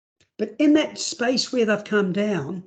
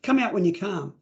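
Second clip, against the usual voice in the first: stern command. Retold or imitated. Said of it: "sometimes we think".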